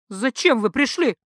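snapped out hard, landing on пришли; sudden harsh demand; barked question. Acted. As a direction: bark it at the men. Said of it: "рявкнула она".

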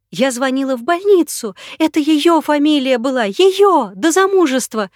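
very high, loud, frantic cries; screaming in panic; woman who uncovered the lie, hysterical. Acted. Hysterical woman confronts impostor.

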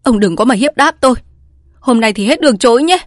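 wife raging at her husband at night; furious wife. A narrator's reading. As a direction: refuse to be bullied, shout it. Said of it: "Vợ Bài đang cơn điên".

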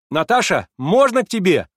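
high, loud put-on boldness; forced bold cry. A narrator's reading. Alyosha calling to Natasha through the door, faking courage. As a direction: call out to cover nerves. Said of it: "вскрикнул он с какой-то выделанной смелостью".

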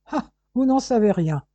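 each word hammered out evenly; measured, insistent cadence; rhythmically stressed. A narrator's reading. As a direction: beat out the words one by one, sceptical. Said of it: "scanda le policier".

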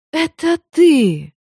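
медленно, высоко, на выдохе; не верь своим глазам; потрясённое узнавание. A narrator's reading. Встреча после разлуки. (потрясённо и медленно)

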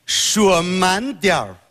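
foreigner speaking mandarin. Retold or imitated. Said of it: "那他怎么说呀".

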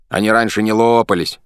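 mumbling through a gag; gagged. A narrator's reading. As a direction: talk round a gag. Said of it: "через кляп мычит".

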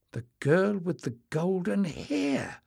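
high, slow, amazed cry; astounded exclamation. A narrator's reading. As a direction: gasp it out in wonder. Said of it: "Jasmine exclaimed, astounded".

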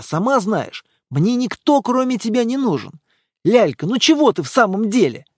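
put-on young man begging, voice lifted and eager; pleading boyfriend. Boyfriend pleading with Lyalka, eager and anxious. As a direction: coax her not to be angry.

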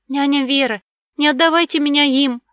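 put-on high, loud, frightened child's cry; hysterical wailing. A narrator's reading. Girl clinging to her nanny, wailing in hysterical fear. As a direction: beg in a panic not to be taken. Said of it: "запричитала в истерике Мира".

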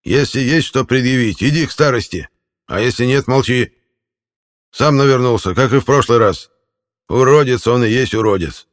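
put-on a furious old man snapping back; enraged old man. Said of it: "разъярился старик".

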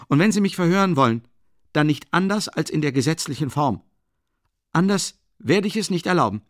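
loud, high, furious ultimatum; angry outburst. A narrator's reading. Raskolnikow loudly defies the investigator, furious. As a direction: blow up and demand to be questioned now. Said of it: "und wurde noch gereizter".

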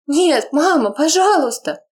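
put-on high pleading girl's cry; anguished plea. Daughter begging her dying mother, anguished. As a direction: beg her not to die.

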